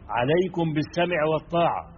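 loud, slow public declaration; public proclamation. Shown as a demonstration. Preacher voicing the command given publicly to all, loud. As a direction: announce it to the whole crowd. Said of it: "مش في العلانية زي".

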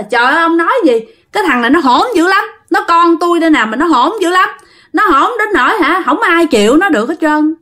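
giọng cao, phân bua dồn dập; nhập vai bà cố kể tội đứa cháu. Retold or imitated. Bà cố cãi lại ông thầy. (giả giọng người bà than cháu hỗn)

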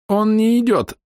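high, burbling gurgle; gurgling voice. A narrator's reading. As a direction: gurgle the words out. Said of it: "пробулькал упавший рядом Док".

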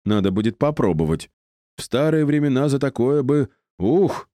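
put-on high, tittering old lecher; old wizard snickering at the thought; giggling old man. A narrator's reading. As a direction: relish it like a randy old man. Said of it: "хихикнул старичок".

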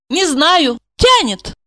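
put-on high, wistful girl; girlish. Asya to Gorokhov, high and wistful. Asya's voice.

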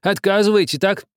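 high, loud reproach; aggrieved old man. A narrator's reading. Old man reproaching the captain, aggrieved and loud. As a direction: lay on the guilt.

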